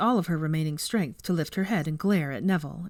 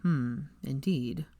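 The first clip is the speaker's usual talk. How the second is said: amused; 3 semitones lower, 4 dB quieter, much slower than usual. A narrator's reading. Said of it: "He sounded amused now".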